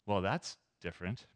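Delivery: low, soft, falling "different" after a pause; mild disapproval. Shown as a demonstration. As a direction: say "Well, that's different" low and reserved, as if disapproving. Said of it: "Depending on what we stress the syllable to".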